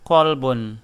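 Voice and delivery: kolbun with a Q from the back of the throat; kolbun, throaty back Q; deep Q. Shown as a demonstration. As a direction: kolbun said as heart. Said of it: "called with the letter Q".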